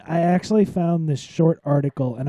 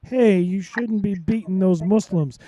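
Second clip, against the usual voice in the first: mock official scolding; 5 semitones higher than usual. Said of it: "you can't expect them to go to India and say".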